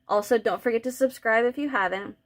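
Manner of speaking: muffled behind a hand; mouth covered. Real, not acted. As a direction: talk through a covered mouth. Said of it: "I'm trying to talk with my mouth covered".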